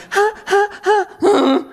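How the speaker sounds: high, hammed-up laughter that suddenly stops; mock joyful laugh. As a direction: laugh up high like bliss, then cut it off.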